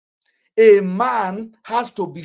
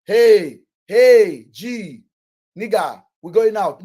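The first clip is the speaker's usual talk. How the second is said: mock hype call; 8 dB louder, much slower than usual. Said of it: "I don't need to be like".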